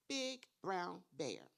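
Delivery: Big brown bear said slowly, each B hit; slow alliteration demo. Shown as a demonstration. Teacher showing alliteration to parents, slow and stressed. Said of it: "Also alliteration".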